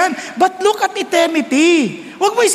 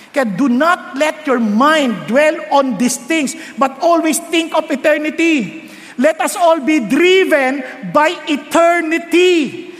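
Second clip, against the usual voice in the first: slow preaching; much slower than usual. Acted. Slow emphatic English exhortation.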